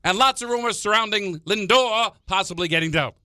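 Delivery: put-on high old-time newsreel narrator; old-timey voice. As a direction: read it like a vintage newsreel. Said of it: "Give me an old-timey voice".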